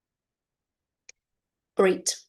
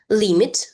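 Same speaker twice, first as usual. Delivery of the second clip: "Limit" stressed loudly on LIM; stress on first syllable; 5 dB louder than usual. Shown as a demonstration. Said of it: "pay attention to the stress".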